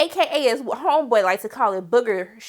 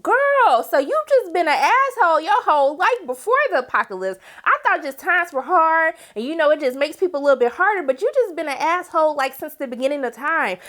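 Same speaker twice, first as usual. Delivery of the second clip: sassy clapback; 4 semitones higher than usual. Retold or imitated. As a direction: read her for filth. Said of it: "I said".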